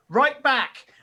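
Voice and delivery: high, amused call over the shoulder; called back on the run. Acted. Mum calls to young son while charging into the village, called back high. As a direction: toss it back loudly while rushing off. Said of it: "points at him and goes".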